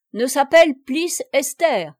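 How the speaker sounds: put-on a banker's heavy German accent. A narrator's reading. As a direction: play the old German banker mangling his French. Nucingen's accented speech.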